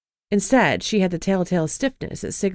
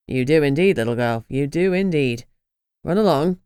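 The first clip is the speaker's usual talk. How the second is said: lower, gloating male voice; smug dismissal; 4 semitones lower than usual. Acted. Rain gloating at Lucy, low and smug. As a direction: dismiss her like a child.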